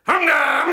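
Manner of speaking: loud, high mimicked motor noise; imitated engine roar. Dad starts the car with no muffler, loud engine roar.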